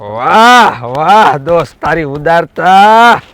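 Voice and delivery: drawn-out sarcastic praise; mock admiration. Sarpanch to a poor villager offering shelter, mock admiration. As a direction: stretch the praise out slowly in mockery.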